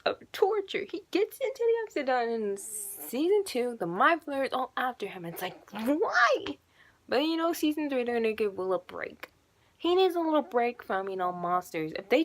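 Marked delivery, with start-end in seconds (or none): 5.7-6.6 long, high mock wail; anguished protest. Fan protesting the monster chasing the boy, drawn-out anguished wail. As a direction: stretch it into a wailed question.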